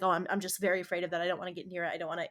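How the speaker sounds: quiet, rushed worried muttering; softly voiced nervous self-talk; anxious reluctance. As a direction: imitate a mild fearful reluctance under your breath. Voicing own anxious reluctance.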